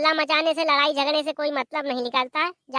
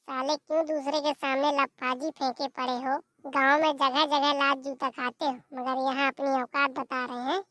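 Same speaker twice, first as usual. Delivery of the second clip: much softer scornful aside; muttered jibe; 4 semitones lower, 6 dB quieter than usual. Acted. Brother quietly mocking the boasting relative, soft jibe. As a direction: mutter the insult under your breath.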